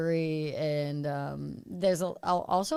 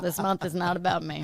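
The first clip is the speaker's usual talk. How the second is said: laughing. Real, not acted. Joking while laughing.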